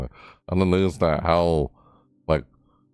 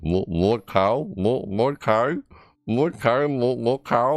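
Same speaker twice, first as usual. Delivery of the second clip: imitating a game voice line; 6 semitones higher, slower than usual. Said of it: "it sound like".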